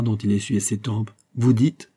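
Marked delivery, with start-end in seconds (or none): 1.4-1.9 mildly startled question; shocked question. A narrator's reading. Fouquet pale at the news, shocked. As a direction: ask it in mild shock. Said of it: "s'écria Fouquet, plus blanc que le mouchoir".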